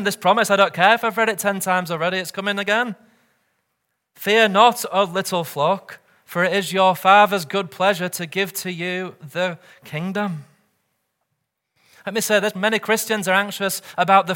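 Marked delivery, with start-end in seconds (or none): 4.2-10.5 proclaiming, louder. Real, not acted. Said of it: "Hear what Christ says to you again".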